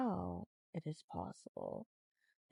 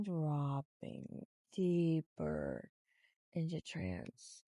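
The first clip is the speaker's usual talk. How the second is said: very slow trance voice; hypnotic voice; 3 semitones lower, much slower than usual. Shown as a demonstration. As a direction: drop them deeper. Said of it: "The more you practice".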